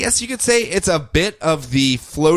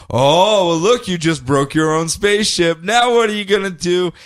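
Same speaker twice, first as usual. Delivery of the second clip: Sinestro; 4 semitones higher than usual. Retold or imitated. Villain taunting her over the broken spaceship, mocking. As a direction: needle her with a lilting jeer. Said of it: "Sinestro making fun of her the entire time".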